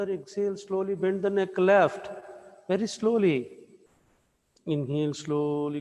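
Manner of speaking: yoga teacher pacing a class through gentle movements; guided yoga instruction. Real, not acted. Leads guided yoga breathing practice.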